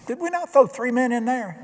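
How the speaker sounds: a king who can't believe his eyes; lightly voiced amazed king; astonished king. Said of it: "He looked at me and said".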